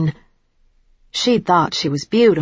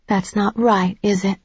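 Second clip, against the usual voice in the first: gentle; 3 semitones higher than usual. A narrator's reading. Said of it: "keeping my voice gentle".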